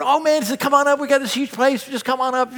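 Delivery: high, eager friendly urging; gracious invitation. Retold or imitated. Friends invite family to the huge mountain place, eagerly welcoming. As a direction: coax them up with generous enthusiasm. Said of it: "the gracious stuff, they're going".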